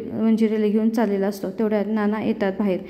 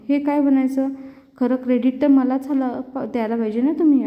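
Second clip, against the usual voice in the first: indignant protest; 2 semitones higher than usual. Acted. Jay protesting to the doctor that the credit is his, indignant. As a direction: demand the credit, pitched up in protest.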